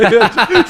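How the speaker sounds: a real burst of high laughter; laughing. Real, not acted. Telling friends how the bluff worked, real laughter. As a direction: laugh at your own bluff.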